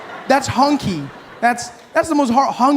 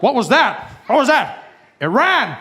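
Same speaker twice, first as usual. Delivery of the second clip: suspicious America; 4 semitones higher than usual. Acted. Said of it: "America's like".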